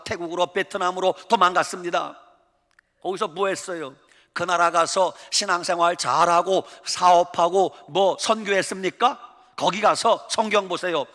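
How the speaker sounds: ordinary talk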